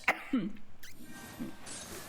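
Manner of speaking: hacking, throat-clearing cough; old man's cough. Acted. Old mage interrupted while casting, coughing. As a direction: cough like an aged wizard mid-sentence.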